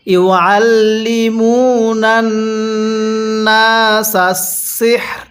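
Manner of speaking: slow level chant, সিহর with full h, faint r; pausal recitation. Shown as a demonstration. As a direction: draw it out, then let সিহর fade on breath. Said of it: "এরকমভাবে শিখব". (টেনে তিলাওয়াত, সিহর-এ র হালকা)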